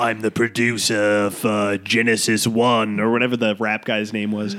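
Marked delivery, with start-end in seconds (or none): 0.0-3.0 extremely deep bass voice, slow. Imitating the British producer from the show: imitating a super deep voice. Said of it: "He's like the super deep voice".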